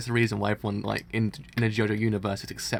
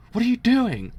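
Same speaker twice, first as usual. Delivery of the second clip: much higher and louder outburst; angry shout; 10 semitones higher, 9 dB louder than usual. Acted. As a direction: yell at him for leaving. Priest shouts at fleeing guard.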